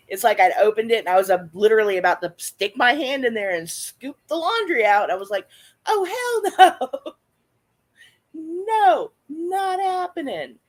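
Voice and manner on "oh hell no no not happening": high, drawn-out refusal; retold horrified no, pitched way up; emphatic refusal. Retelling finding a snake in the laundry, emphatic high refusal.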